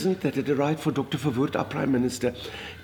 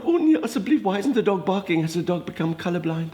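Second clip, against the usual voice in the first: panicked thought; 3 semitones higher than usual. Retold or imitated. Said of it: "And I thought".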